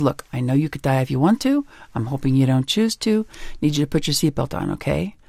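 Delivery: steady, even voice with a settled okay; calm, firm okay. Retold or imitated. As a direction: state it kindly but leave no room for argument. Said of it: "say it calm and firm".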